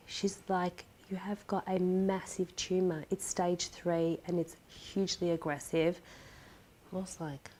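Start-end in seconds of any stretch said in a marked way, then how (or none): 1.1-6.0 grave diagnosis. Retold or imitated. Retells doctor giving the diagnosis.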